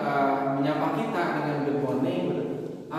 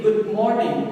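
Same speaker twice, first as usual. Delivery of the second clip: "morning" stressed on its first syllable, then falling; 3 semitones higher, 3 dB louder, slower than usual. Shown as a demonstration. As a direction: lean slowly into the M of "morning". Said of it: "jadi penekanan suaranya di huruf M".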